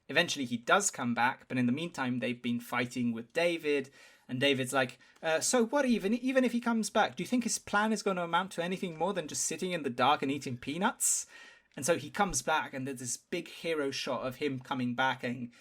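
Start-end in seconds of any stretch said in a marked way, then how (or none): 5.4-11.3 sneering. Retold or imitated. Quoting David mocking the plan.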